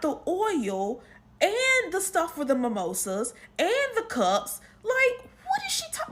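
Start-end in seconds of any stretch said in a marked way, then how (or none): 4.8-6.1 incredulous. Retold or imitated. Incredulous retold reaction.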